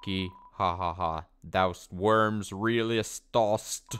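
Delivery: mock-archaic villain. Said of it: "only know one character who would talk like this".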